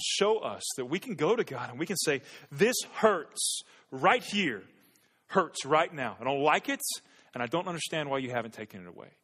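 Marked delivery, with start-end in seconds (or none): 2.5-9.1 pained prayer. Pretend. Voicing an honest prayer to God.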